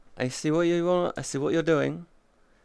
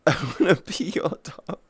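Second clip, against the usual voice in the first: laughing silly line; 2 semitones higher than usual. Pretend.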